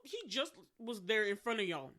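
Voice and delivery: mock exasperation at clueless people; incredulous. Retold exasperation at fooled pursuers.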